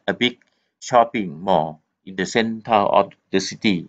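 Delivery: very slow, word by word passage reading; slow, careful classroom read-aloud. Acted. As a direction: read it out slowly for the class to follow. Teacher reads passage aloud.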